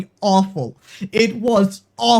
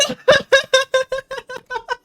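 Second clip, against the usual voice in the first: very high, sobbing laughter; real happy sobbing laugh; tearful laugh; 14 semitones higher than usual. Real, not acted. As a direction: laugh and cry at once with relief. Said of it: "I'm fucking crying".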